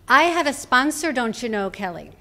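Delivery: light imitation of a proud Irish brogue; mild Irish brogue, as grandmother boasting to Kelly. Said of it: "her musical Irish brogue".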